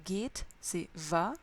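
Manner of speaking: geht said slowly for translation; slow word by word. Shown as a demonstration. Teacher translating geht slowly word by word. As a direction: drag out geht and its meaning. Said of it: "Mot à mot".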